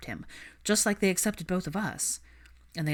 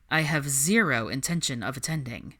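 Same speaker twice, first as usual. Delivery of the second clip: lower, cool refusal; dry Draco; 4 semitones lower than usual. Acted. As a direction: shut the idea down coolly. Narrator voices Draco.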